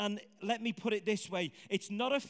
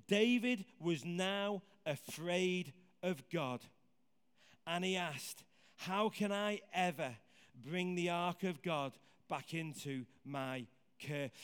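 measured, slow Bible reading; slow, careful reading of scripture; 3 semitones lower than usual. Shown as a demonstration. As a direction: read the verse out steadily. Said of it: "Verse twelve said this".

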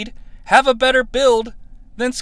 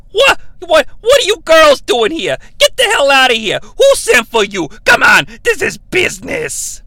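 mock outrage; 6 semitones higher than usual. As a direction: feign shock and shoo them out. Bischoff angrily sends the women off.

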